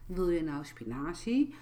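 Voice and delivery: firmer, insisting mother's tone; impatient mother pushing for a choice; stricter mother. Retold or imitated. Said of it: "de tonatie al anders werd".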